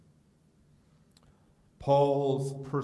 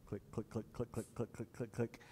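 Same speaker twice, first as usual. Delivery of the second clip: hoof clicks; 13 dB quieter than usual. Retold or imitated. Donkey hooves walking.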